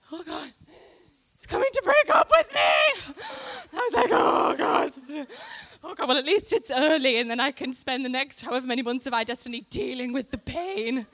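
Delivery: high, loud, hammed-up panic shout; mock panic. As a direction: shriek it like the worst news ever. Retold panic, far shout.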